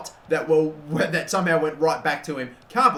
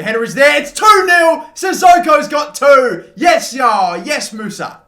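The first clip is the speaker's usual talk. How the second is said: screaming goal celebration, high and loud, voice cracking; 10 semitones higher, 12 dB louder, slower than usual. Real, not acted. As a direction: scream it as the header goes in. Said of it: "that voice crack".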